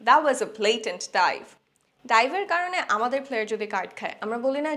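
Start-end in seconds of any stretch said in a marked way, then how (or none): 0.0-1.4 slow, a bit louder fan complaint; mild fan grumble; indignant recall. Shown as a demonstration. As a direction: complain about the dive afterwards. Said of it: "যেমন".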